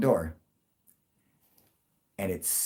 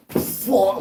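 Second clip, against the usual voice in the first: high, loud startled yelp; startled curse; 10 semitones higher, 6 dB louder than usual. Retold or imitated. Brother-in-law recoiling from the hovering UFO, loud startled curse. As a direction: jump back with a sharp curse. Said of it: "My fucking brother-in-law went".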